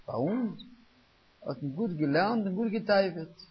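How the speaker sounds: lightly voiced Misnagdic quip, drawn out; mocking Misnagdim style. Rabbi quoting what Misnagdim would say, drawn-out mimicry. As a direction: stretch it slowly like a set saying. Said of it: "היו אומרים כזה נוסח".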